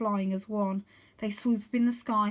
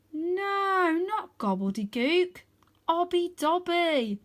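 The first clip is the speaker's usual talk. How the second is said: high, then slow whispered Obby Dobby; remembering the secret word, hushed; sudden realisation; 8 semitones higher, 3 dB louder, slower than usual. A narrator's reading. Arthur recalling what Rose shouted, hushed realisation.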